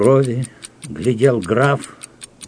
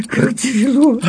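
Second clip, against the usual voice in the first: anguished cry; 14 semitones higher, 3 dB louder than usual. A narrator's reading. Count wailing in despair over his fate. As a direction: lament rising much higher.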